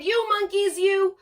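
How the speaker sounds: very high, loud, furious peddler; outraged storybook yell at its peak; angry shout. A narrator's reading. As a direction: shout the demand, leaning on MUST. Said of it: "and shouted".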